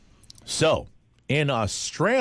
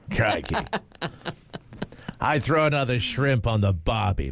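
mock Australian accent; 3 semitones higher than usual. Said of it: "Bill can't do an Australian accent".

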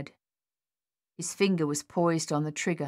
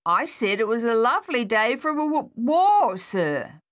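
louder, higher stammer; stammered louder repeat; 6 semitones higher, 5 dB louder than usual. A narrator's reading. Soldier repeating himself louder to the captain. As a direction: push the word war out hard.

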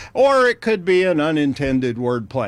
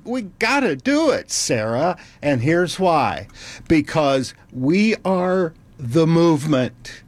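mock grand AI. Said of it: "He said".

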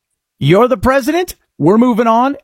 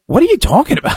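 incredulous; 7 semitones higher, much faster than usual. Retold or imitated. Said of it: "And I'm like".

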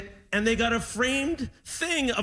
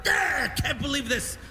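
grumpy dad; 4 semitones higher than usual. Retold or imitated. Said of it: "all mad and grumpy".

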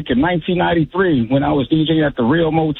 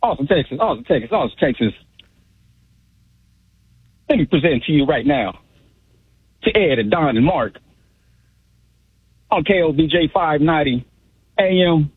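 radio DJ station intro with long gaps between phrases. Shown as a demonstration. Club DJ performing a station intro on the hosts' request, DJ voice. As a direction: play the club DJ, pausing after each phrase. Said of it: "with your best D J voice".

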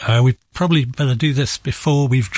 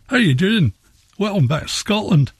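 imitating a Scottish accent, pitched up; 8 semitones higher than usual. Guest mimics Scots across the river, in a light Scottish accent. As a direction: greet like a cheerful Scot across the border. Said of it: "talk with a very different accent".

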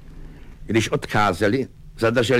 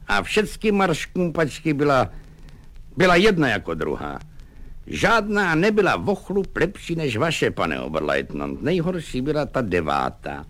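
lightly raised, gossipy sergeant; Vaněk, chatty sergeant; 6 semitones higher than usual. Acted. Sergeant gossiping to his lieutenant, lightly higher and cheerful. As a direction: chat him out of his worry.

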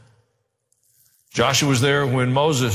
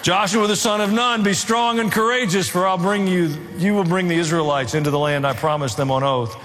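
raised, declaiming voice for God's charge; a lightly lofty reading of the Lord's words; scripture reading; 3 semitones higher than usual. Acted. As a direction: proclaim it like a commission. Reads God's command to Joshua.

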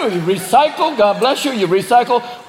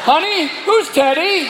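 suspicious spouse; 9 semitones higher, slower than usual. Pretend.

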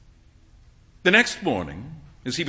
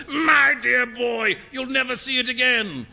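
amused; 8 semitones higher than usual. Acted. Trevor roaring with laughter.

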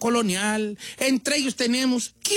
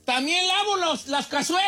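mock grito; 10 semitones higher than usual. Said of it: "Así va a ser mi grito".

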